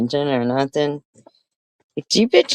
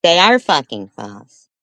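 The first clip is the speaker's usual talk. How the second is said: angry retort; 3 semitones higher, 5 dB louder than usual. Real, not acted. Repeating the denial more forcefully.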